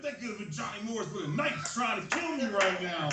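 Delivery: mock angry dad. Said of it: "he got all pissed and he was like".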